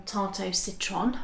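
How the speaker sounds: slow, badly attempted French accent; terrible French accent. Wife naming a lemon dessert to husband, clumsy French accent. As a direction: try the French name in a bad French accent. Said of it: "Terrible French accent".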